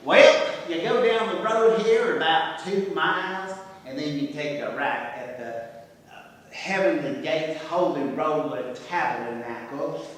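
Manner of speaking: Mississippi local. Acted. Mocking locals who give lost travelers directions, mild Mississippi accent. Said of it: "someone who could speak both Mississippi and English".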